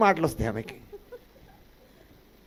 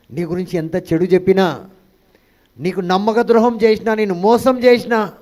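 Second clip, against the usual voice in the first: rising preaching; 2 semitones higher, 7 dB louder than usual. Real, not acted. Preacher building to climax.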